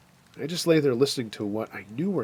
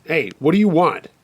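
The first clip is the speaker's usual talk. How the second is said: louder, higher challenge; calling out; 5 semitones higher, 6 dB louder than usual. Acted. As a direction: call out to someone outside the tent. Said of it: "I called out".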